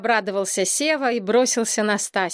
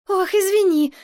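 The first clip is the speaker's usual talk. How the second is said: upset apology; 10 semitones higher, 4 dB louder than usual. A narrator's reading. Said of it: "огорчилась принцесса".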